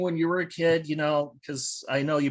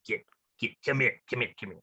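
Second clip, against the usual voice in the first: low, patronizing voice, like coaxing a pet; sports writer talking down to the trivia player; condescending sports writer; 5 semitones lower than usual. Retold or imitated. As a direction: talk down to a dum-dum. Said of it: "they're like".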